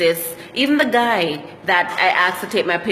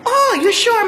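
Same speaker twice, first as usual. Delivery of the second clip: high, louder "you sure?"; mock surprised driver; 13 semitones higher, 4 dB louder than usual. Taxi driver doubting a Jamaican passenger, surprised. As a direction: act the taxi driver's disbelief.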